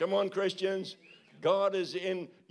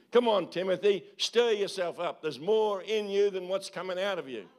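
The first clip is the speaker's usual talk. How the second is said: Paul urging Timothy; 2 semitones higher, 3 dB louder than usual. Retold or imitated. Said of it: "like Paul said to Timothy".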